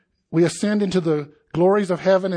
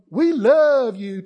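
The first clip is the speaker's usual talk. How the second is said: mock adoring; 5 semitones higher, 5 dB louder, slower than usual.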